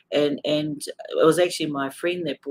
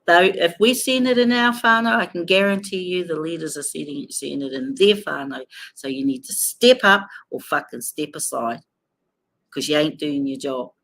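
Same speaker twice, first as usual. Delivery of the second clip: angry; 2 semitones higher, 4 dB louder than usual. Real, not acted. Furious call to leaders.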